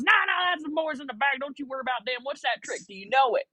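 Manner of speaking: put-on high, brushing-off country accent. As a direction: mimic an unbothered country caller. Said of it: "kinda country accent".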